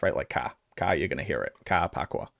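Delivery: ka and pakwa with R dropped, open ah; Boston ka. Shown as a demonstration. Demonstrating his accent on key words. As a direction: drop the R Boston style in ka. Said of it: "in particular words".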